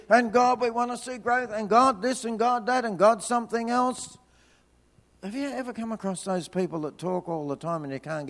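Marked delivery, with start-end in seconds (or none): 0.1-4.2 rattling off demands to God, pitched up; mock nonstop prayer, barely pausing between asks; praying away like crazy. Preacher mimicking his own endless prayer, rapid pleading. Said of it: "I'm praying away like crazy".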